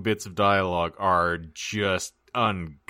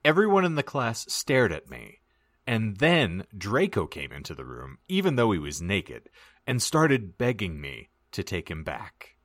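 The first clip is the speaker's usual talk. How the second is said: story narration. Acted. Reads the fan fiction aloud.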